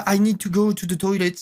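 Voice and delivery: the same thought said in English. Shown as a demonstration. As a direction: switch the inner voice to English. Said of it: "ou tu te dis, euh".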